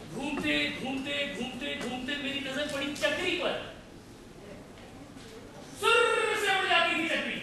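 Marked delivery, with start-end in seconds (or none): 5.8-7.4 put-on childlike excitement. Man reliving the fair's spinning toy, excited and high. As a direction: act out the spinning toy with rising wonder.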